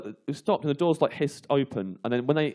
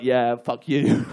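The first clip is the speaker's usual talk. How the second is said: slow gloating taunt; triumphant taunt; 2 semitones lower, 3 dB louder, much slower than usual. Retold or imitated. Teller taunting the lads from outside the bus, slow gloat. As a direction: savour the triumph, drawn out. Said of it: "arms splayed like".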